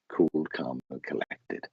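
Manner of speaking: low, soft and collected; calming. Retold or imitated. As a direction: say it coolly, dropping away gently. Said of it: "He's just calmed me down".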